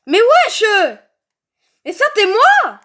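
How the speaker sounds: yelling to be let out; loud outraged shout; frustrated shout. Real, not acted. Trapped in prison, yelling.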